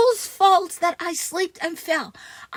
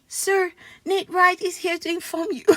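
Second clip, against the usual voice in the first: breaking up mid-line; can't keep a straight face, giggling through it; words cracking with laughter; laughing through the line; 4 semitones higher than usual. Real, not acted. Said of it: "I'm sorry, I'm laughing".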